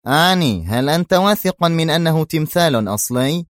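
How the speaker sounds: edgy, careful question; a little nervous. Acted. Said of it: "شابت لكنته بعض العصبية".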